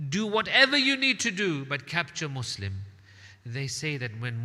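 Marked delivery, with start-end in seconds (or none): 0.1-2.8 loud barked command, then a hard drop; tyrant's command to his troops, loud; commanding order. Acted. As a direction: snap the order at the soldiers. Governor commands the force.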